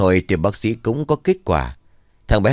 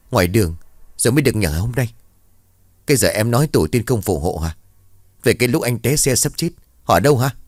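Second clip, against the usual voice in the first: annoyed husband; 2 semitones higher, faster than usual. Acted. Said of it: "nghiến răng".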